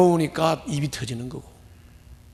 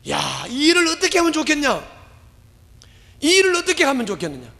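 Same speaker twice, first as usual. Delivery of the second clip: higher, exasperated plea in Paul's voice; lightly voiced Paul asking what to do; Paul lamenting; 9 semitones higher than usual. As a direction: cry out like a troubled apostle.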